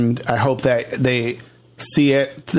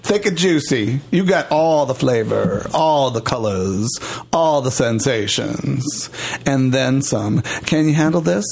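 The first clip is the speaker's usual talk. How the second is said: sultry sales pitch; slower than usual. Acted. Hammed-up sexy sales pitch.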